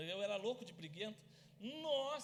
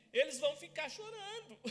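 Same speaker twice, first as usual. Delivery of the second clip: laughing; 4 semitones higher, 3 dB louder than usual. Real, not acted.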